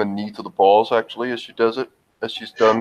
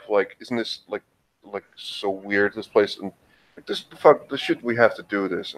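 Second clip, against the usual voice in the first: whiny rambling voice. Acted. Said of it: "she will continue to talk like that".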